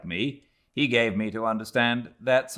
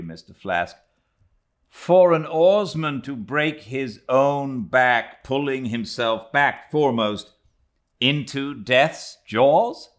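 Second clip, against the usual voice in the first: louder, slightly raised earnest questioning; Ishmael, earnest question; 3 semitones higher, 5 dB louder than usual. Acted. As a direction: press Flask for an answer.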